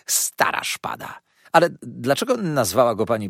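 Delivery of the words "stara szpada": low unvoiced whisper; whispered aside. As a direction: hiss it as a secret. Szeptem dopowiada. (szeptem, na stronie)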